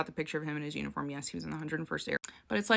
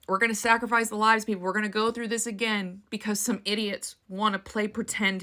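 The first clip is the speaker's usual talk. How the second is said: angry; 3 semitones higher, 4 dB louder than usual. Real, not acted. Outraged rant about people playing Hitler.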